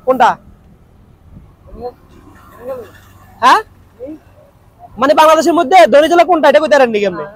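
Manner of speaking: chatting on in a lightly put-on Noakhali dialect. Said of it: "Noakhali ভাষা বুঝেন নাকি".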